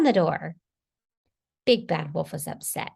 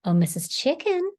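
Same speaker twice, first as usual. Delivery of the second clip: higher, coaxing singsong call; sweetly; 9 semitones higher, 5 dB louder than usual. A narrator's reading. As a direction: call out sweetly to win her over. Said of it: "said Big Bad Wolf sweetly".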